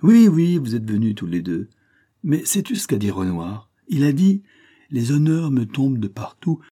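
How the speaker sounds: put-on old painter. Old master quotes Renoir.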